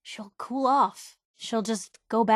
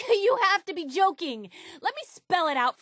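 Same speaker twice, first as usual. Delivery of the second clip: laughing disbelief; 8 semitones higher than usual. Acted. Flustered laughing disbelief at companion.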